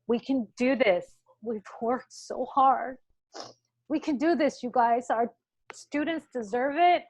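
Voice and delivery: real emotion, pushing through tears to cheer them on; emotional. Real, not acted. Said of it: "I'm getting kinda emotional".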